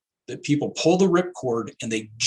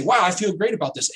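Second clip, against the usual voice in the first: lightly voiced thrilled investor; excited investor; 6 semitones higher than usual. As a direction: sound like someone riding a winning market. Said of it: "they say".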